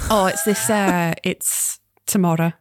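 put-on light Scouse accent as Sam, teasing her mum; gentle Liverpool nagging, accent held lightly. Sam chides her mum about the heating, light Scouse. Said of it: "I've forced you to do a Scouse accent".

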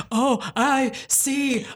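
lightly mocked mystic seer; drawn-out pretend vision; witch drag. Claire fakes a vision for the men, lightly spooky witch. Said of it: "she puts on the witch drag again".

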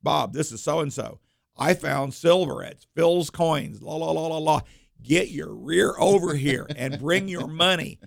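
customer calling his buddy, slow and eager; a touch of giddy phone call, drawn out; excited customer on phone. Retold or imitated. Customer calls friend about finding silver, lightly excited. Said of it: "he gets his cell phone out".

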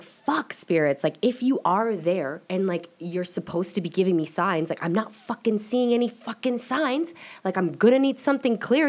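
high, exasperated outburst at the spirits; half-yelling at the spirits for a sign; frustrated plea. Retold or imitated. Demanding signs from the spirits.

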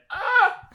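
sudden very high loud ah; shriek. Real, not acted. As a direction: shriek to make a peak. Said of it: "didn't edit out a peak".

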